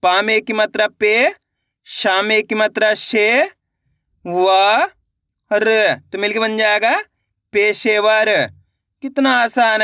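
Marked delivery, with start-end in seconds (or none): 0.0-8.3 slow, clear sounding-out for learners; syllable-by-syllable reading demo. Shown as a demonstration. Teacher showing students how to blend syllables, slow and clear. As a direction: sound out each syllable, then blend into the whole word. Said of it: "तो कैसे पढ़ेंगे?".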